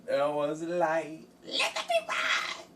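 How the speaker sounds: hammed-up divine voice; mock biblical decree. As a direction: proclaim it like God, then crack up. Grand biblical pronouncement over black light.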